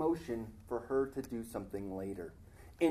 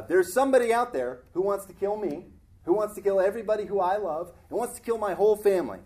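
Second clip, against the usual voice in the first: louder, fast, urgent pleading; urgent accusation; 3 semitones higher, 6 dB louder, faster than usual. Retold or imitated. Preacher voicing Esther telling the king of the threat, louder and fast. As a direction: rush it out in alarm. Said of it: "And she says".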